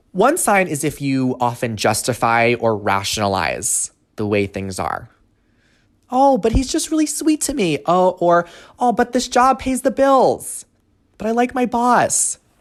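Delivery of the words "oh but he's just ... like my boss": very high-pitched voice. A speaker acts out how people justify what they tolerate, high-pitched voice. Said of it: "we usually go into that high-pitched voice".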